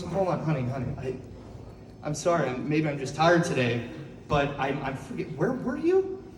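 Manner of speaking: hesitant and confused, rising on the last question; gently interrupt, sorry to ask; apologetic dad. Acted. Patient dad timidly interrupts mom.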